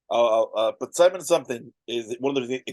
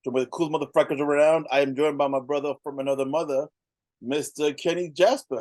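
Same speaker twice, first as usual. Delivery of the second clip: usual speaking voice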